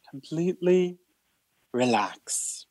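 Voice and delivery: breathy whispered relax. Acted. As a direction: let it fade to a whisper. Relaxation cue, last word whispered.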